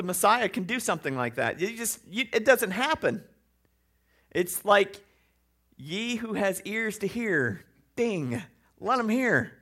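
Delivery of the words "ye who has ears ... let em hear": slow, drawn-out biblical voice; mock solemn Jesus quote. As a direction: intone it slowly like scripture. Quoting Jesus in preacher voice.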